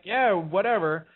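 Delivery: slow, unbothered brush-off; dismissive. Retold or imitated. Teller brushing off a panicked partner's protest, dismissive. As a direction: play it cool and wave them away.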